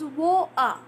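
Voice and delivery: "wa-a" with the T dropped for a glottal catch. Shown as a demonstration. Teacher shows how movie English glots water, "wa-a" with no T. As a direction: cut the T out of "wa-a". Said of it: "they glot their T sound".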